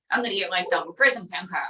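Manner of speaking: a hint of a boastful Trump; Trump puppet voice. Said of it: "what are you gonna do?".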